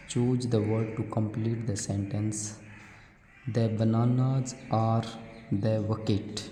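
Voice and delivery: very slow, deliberate English read; slow classroom read-aloud; reading a question aloud. Acted. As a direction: read the worksheet question word by word for children. Reads worksheet question slowly.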